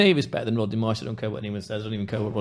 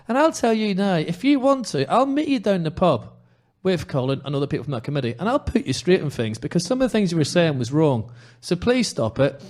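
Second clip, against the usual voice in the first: higher, fired-up challenge to the critics; heated rant; 5 semitones higher than usual. Real, not acted. Podcaster challenging social media critics, heated rant. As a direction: square up to the online critics, passionate. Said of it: "I'm sorry for my rant".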